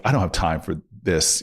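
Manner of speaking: low, weary brush-off; a dry, cynical dismissal. Retold or imitated. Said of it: "she looks at me with this cynical".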